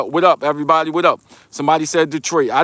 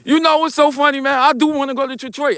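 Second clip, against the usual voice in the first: laughing; 9 semitones higher than usual. Real, not acted. Laughing at Detroit comment.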